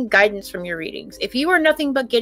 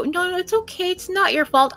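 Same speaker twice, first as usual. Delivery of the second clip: higher, softer, coddling reassurance; imitating a gentle reader, higher and soft; mock soothing; 9 semitones higher, 3 dB quieter than usual. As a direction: pretend to comfort, sugary. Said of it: "I'm not going to sit there and go".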